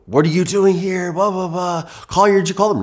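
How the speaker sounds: high, loud mock tirade from an angry grandmother; furious grandmother. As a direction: play the grandmother shrieking at the police, half-acted. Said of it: "She is so pissed".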